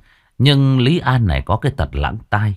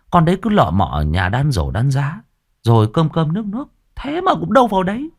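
rising, faster wheedling servant; sly servant; 2 semitones higher than usual. Acted. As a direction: talk her up to the master. Sửu praising the blind girl. (giọng đầy tớ tâng bốc)

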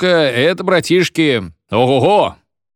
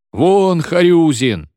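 a gleeful mob yelling; class howling; 7 semitones higher, 4 dB louder, slower than usual. A narrator's reading. Class chases Kharyuzin out, higher, louder howl. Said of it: "взвыл класс".

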